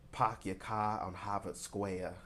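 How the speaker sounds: put-on drawn-out amateur Boston accent, r's dropped. Tennessee psychic tries out what she's hearing, in a Boston accent. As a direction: slowly attempt a hammed-up Boston accent. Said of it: "somebody with a Boston accent".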